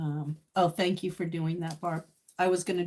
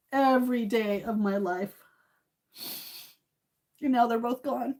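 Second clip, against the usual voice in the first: grieving; 5 semitones higher than usual. Real, not acted. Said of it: "I'm just a little emotional".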